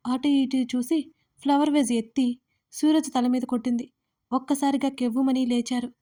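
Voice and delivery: audio-drama narrator; story narration. A narrator's reading. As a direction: narrate the episode with steady drive. Reads the story aloud.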